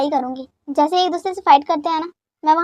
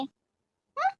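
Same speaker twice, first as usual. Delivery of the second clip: shocked gasp; 10 semitones higher, 11 dB quieter, much slower than usual. Acted. Daughter shocked at losing banana milk.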